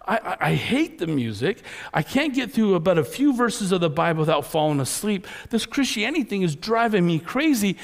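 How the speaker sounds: mildly hammed-up exasperated whine, rising in pitch; fed-up complaining. Frustrated churchgoer venting about religion without joy, complaining. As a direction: grumble like someone sick of the rules.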